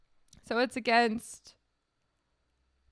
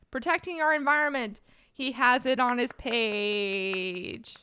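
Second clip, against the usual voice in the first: excited, raised and louder, drawing out the end; pleasantly surprised; 2 semitones higher, 4 dB louder, slower than usual. Real, not acted. Reader spots environment on candidate's page, excited. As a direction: announce a happy find, stretching the last words.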